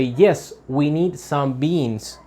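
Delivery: "beans" stressed, falling, a little slow; slow answer landing on "beans". Shown as a demonstration. Teacher modelling answer stress for students, emphasis on beans. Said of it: "I make emphasis on beans".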